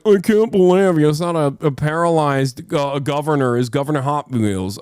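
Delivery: mock outrage. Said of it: "douchebags are gonna be like".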